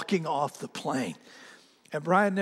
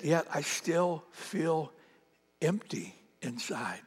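quiet confession; 6 dB quieter, slower than usual. Retold or imitated. Brian's sad confession retold.

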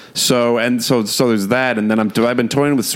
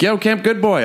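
fan calling out; 11 semitones higher than usual. Retold or imitated. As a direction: pitch leaps high, a called-out greeting. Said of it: "someone's like".

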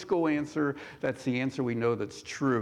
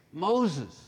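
raised call that softens on the repeat; inviting call; 3 semitones higher than usual. Acted. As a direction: call him to come near. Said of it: "what was the tone of his voice".

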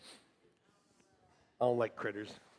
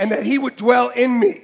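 leading a call and response; 4 semitones higher, 6 dB louder than usual. Real, not acted. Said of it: "call and response, leading".

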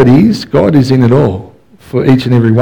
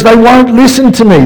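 whiny Moses; 9 semitones higher, 3 dB louder than usual. Retold or imitated. Moses complaining to God about the people. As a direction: whine that nobody listens. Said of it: "Moses goes".

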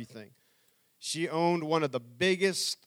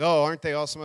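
sarcastic mockery; 4 dB louder, much faster than usual. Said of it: "I was just dogged".

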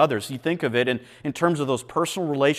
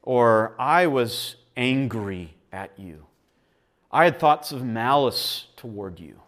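sincere confession; 3 semitones lower than usual. Shown as a demonstration. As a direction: confess humbly and plainly. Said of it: "we go to one another and say".

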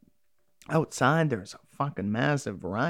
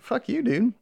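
mock angry retort; 9 semitones higher than usual. Recapping the episode, voicing the burning doctor with a higher mock insult. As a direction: toss the insult up high like an angry cartoon villain. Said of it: "She's like".

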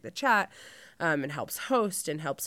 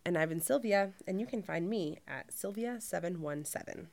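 customer service voice. Shown as a demonstration. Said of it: "are you ready for mine".

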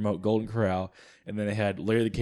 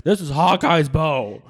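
nerd voice; 5 semitones higher, 6 dB louder, slower than usual. Retold or imitated. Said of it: "every nerd ... would be like".

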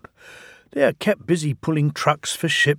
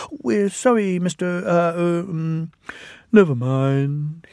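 high, fumbling little engines; abashed twins; 5 semitones higher than usual. Acted. The twins apologizing to the diesel, high and hesitant. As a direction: stammer an apology.

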